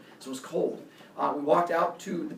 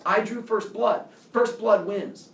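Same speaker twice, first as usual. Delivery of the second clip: imitated insistence; 4 semitones higher, 4 dB louder, slower than usual. Rival boy argues his win.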